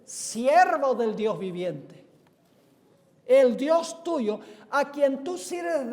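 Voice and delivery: loud, slow, drawn-out call to Daniel. Acted. King calls to Daniel at the lions' pit, calling out. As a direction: call out in measured phrases, "siervo" stretched. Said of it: "llamó a voces a Daniel con voz triste".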